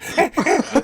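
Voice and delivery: high, loud mock straining sound; imitated frantic running noise. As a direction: act out someone running flat out, noisily. Imitates Mikey straining to run.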